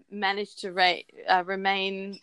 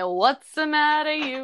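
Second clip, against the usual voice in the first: mock tough guy; 6 semitones higher than usual. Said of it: "Do they say".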